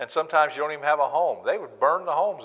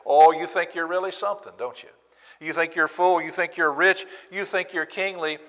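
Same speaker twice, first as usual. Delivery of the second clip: sarcastic; 6 semitones higher, 3 dB louder than usual. Acted. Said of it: "Paul is sarcastically throwing that right back".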